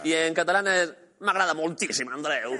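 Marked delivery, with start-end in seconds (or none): 1.2-2.5 Italian accent on Catalan. Shown as a demonstration. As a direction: Catalan words, Italian lilt. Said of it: "la lengua catalana con el acento italiano".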